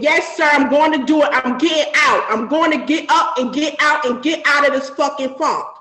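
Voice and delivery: loud, determined yelled promise; fired-up shout. Retold or imitated. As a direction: shout it like you finally mean it. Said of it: "I need some more, eh, motivation".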